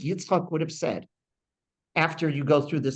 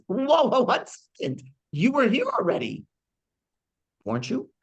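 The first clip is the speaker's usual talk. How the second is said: mock alarm; 10 semitones higher than usual. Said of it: "And he says".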